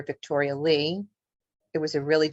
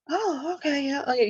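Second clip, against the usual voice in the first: higher-pitched tentative okay; imitating dad's reply; 7 semitones higher than usual. Dad answering his aunt's welcome, lightly imitated higher reply. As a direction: lightly voice a man going along with it. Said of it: "he kind of's like".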